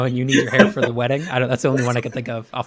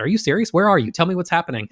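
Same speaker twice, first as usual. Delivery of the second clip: raised, urgent questioning; mock overreaction; 5 semitones higher than usual. Owner reacting to a reported gunshot, mock overreaction. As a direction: act mildly alarmed, pitch jumping up. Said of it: "overreact to the issue".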